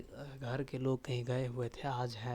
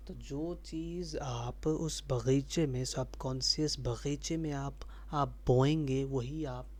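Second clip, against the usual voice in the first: slow and louder, building; emphatic explaining; 6 dB louder than usual. Real, not acted. Vlogger re-explains the garden idea, slow and emphatic. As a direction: lean into the point.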